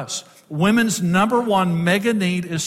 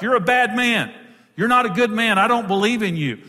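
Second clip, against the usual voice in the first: higher, accusing wife; mild attacking tone; 4 semitones higher than usual. Acted. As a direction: come at him with mild mock accusation, pitched up. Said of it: "comes at a man".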